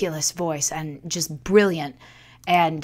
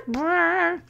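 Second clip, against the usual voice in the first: trumpet noise; 10 semitones higher, 4 dB quieter than usual. Shown as a demonstration. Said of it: "starts brr".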